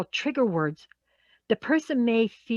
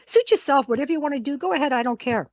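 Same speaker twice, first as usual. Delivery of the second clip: dismissive; 4 semitones higher, faster than usual. Acted. Acts out dismissive retort.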